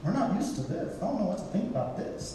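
hushed, hurried crowd reaction; stunned crowd murmur. Retold or imitated. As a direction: mumble it like people caught off guard. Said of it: "That's how they all sounded".

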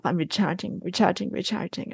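recharging herself on the staircase, hushed and soft; soft self-talk. Retold or imitated. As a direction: softly repeat it like a mantra while resting. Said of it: "telling myself".

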